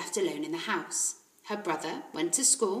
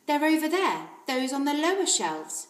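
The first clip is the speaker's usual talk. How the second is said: kindly librarian; 6 semitones higher, 4 dB louder than usual. Acted. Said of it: "Missus Phelps told her".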